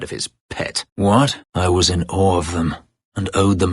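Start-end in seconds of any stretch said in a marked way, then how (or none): 0.0-0.8 whispered, bitter end. Acted. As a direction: whisper the last words bitterly. Bitter about his former master.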